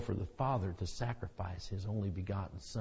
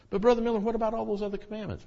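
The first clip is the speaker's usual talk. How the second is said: a quick, higher questioning aside; lightly voiced objector; 12 semitones higher, 4 dB louder, much faster than usual. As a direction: rattle off the skeptic's question. Imagined objector in the congregation.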